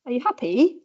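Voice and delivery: HAPPY drawn upward at the end; demonstrated question intonation. Shown as a demonstration. Lecturer showing another option, question tune on HAPPY. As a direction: ask it with a swoop up on HAPPY. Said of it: "You can also say".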